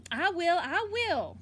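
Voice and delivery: a hint of a sure little girl; confident. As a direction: promise it, slow and certain. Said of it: "real confident-like".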